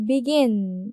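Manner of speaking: begin, lean on gin; stress on gin. Shown as a demonstration. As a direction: begin said slowly with the second syllable gin stressed. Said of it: "두 번째 음절에 액센트가 있죠". (begin을 천천히, 두 번째 음절 gin을 강하게)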